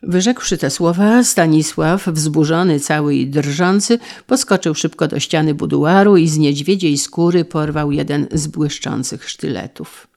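ordinary delivery

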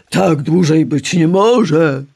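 slow, booming angry god; thundering. A narrator's reading. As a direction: thunder it out in anger. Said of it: "grzmiał Uranos".

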